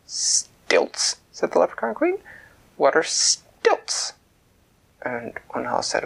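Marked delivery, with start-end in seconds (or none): 0.1-4.1 leprechaun queen. Acted. Queen puzzled.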